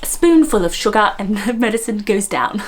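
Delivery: lightly mimicked prim English singer; a famous English singer. Vlogger joking about her RP, imitated English star. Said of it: "I sound like her".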